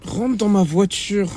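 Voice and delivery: fed up driver ordering his friend into the car; firm order. Acted.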